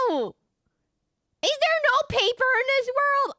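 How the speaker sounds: high, loud, slow wail; mock exasperation. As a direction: cry it out in hammed-up despair. Mock exasperated outcry about game.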